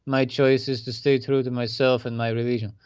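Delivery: light attempt at a Russian accent. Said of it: "That's my attempt at a Russian accent".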